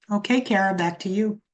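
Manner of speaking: light news anchor hand-back; news anchor sign-off. Real, not acted. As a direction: toss it back to the studio, anchor style. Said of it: "sound like a news anchor".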